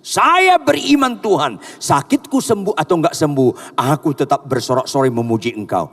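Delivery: believer's prayer. Acted. Preacher voices a believer's prayer.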